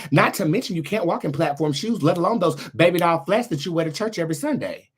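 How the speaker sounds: roasting jab. Real, not acted. Roasting a critic.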